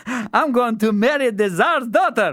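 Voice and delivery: high, loud eager fool voice; simple fool. A narrator's reading. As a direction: announce the plan like a proud simpleton. Fool voiced answering old man.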